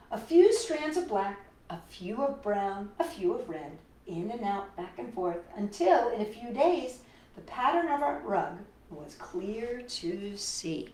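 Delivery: put-on lively storybook narration for kids; reading to children. A narrator's reading. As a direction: read it like a picture book to little ones. Reads picture book aloud.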